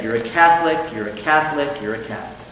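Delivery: a hint of a solemn priest intoning; priest blessing. Priest baptizing, voiced in joke.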